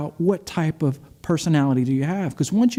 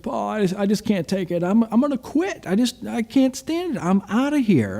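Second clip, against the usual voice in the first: higher-pitched, acted exasperation; retold frustration; 5 semitones higher than usual. Friend calls to quit his new job, retold exasperation. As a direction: act out a friend fed up and quitting. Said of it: "I'm just frustrated".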